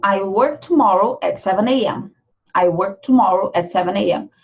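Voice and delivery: I'll barely heard before work tomorrow; hidden I'll. Shown as a demonstration. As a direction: slip the I'll in almost silently. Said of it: "Quase não aparece".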